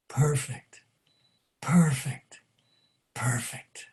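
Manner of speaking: hushed, breath-heavy repetition, fading away; silently mouthed. A narrator's reading. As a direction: say each word almost soundlessly, with pauses between. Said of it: "silently mouthed one word again and again".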